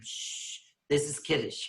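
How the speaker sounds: soft whispered shush; hushing. Retold or imitated. Congregants hushing Weiner during Kiddush, whispered. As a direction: hush him like in synagogue.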